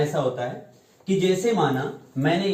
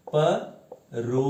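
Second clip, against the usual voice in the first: परोपकार said slowly, syllable by syllable; slow spelling out; 2 semitones lower, 3 dB quieter, much slower than usual. Shown as a demonstration. Teacher writing a word for pupils, slow careful परोपकार. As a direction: stretch out परोपकार so pupils hear each part. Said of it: "मैंने एक शब्द लिखा है".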